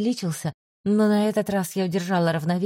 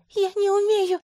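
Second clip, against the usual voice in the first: sobbing plea; 13 semitones higher than usual. A narrator's reading. Healer sobs to the commander that she can't fly, high and tearful. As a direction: sob it in panic.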